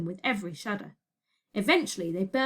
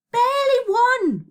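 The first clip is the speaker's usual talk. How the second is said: slow, very loud, high answer; exasperated yell; 14 semitones higher, 8 dB louder than usual. A narrator's reading. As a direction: yell it back, drawn out. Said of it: "Virgo yelled".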